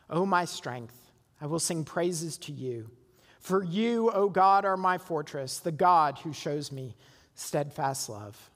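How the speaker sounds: measured, reverent reading of a psalm; scripture reading. Acted. Pastor reads the psalm to his congregation, reverent and measured. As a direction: read the psalm aloud to the congregation.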